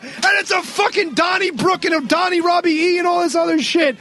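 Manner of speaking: hyped recap of the wedding brawl; excited. Real, not acted. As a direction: pitch way up with excitement.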